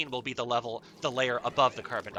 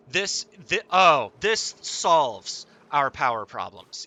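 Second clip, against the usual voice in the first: excited; 8 dB louder, slower than usual. Real, not acted. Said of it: "I'm so happy".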